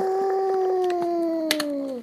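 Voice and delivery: Chewbacca sound. Pretend. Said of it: "Is that the sound Chewbacca makes?".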